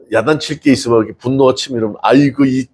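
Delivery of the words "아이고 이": tender scolding. Shown as a demonstration. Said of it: "이렇게 해버리면 어떨까".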